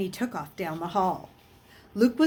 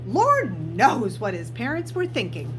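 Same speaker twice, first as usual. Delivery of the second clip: bossy, slightly raised voice of a stern teacher; stern housemistress; 3 semitones higher than usual. Acted. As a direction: hand out orders briskly. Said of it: "She frowned at the boy".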